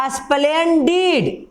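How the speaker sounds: स्प्लेंडिड in two beats, "asplen-deed"; two syllables. Shown as a demonstration. Teacher giving a double-syllable example, स्प्लेंडिड in two parts. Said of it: "दो बार में बोले".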